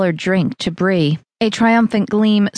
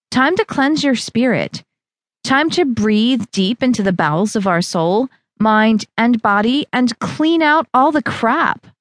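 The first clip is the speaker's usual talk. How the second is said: higher, preachy trainer; Val's voice; 4 semitones higher than usual. Acted. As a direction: sell the cleanse like a guru. Val preaches unplugging.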